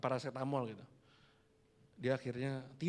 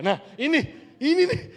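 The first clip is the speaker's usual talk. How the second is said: excited call, higher and louder; berseru semangat; 13 semitones higher, 12 dB louder than usual. Real, not acted. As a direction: call out the answer eagerly. (jemaat menjawab, pendeta berseru gembira)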